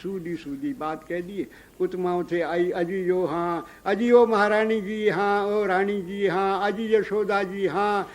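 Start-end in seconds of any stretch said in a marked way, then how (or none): 2.7-8.1 calling out. Acted. Gopi calls out to queen.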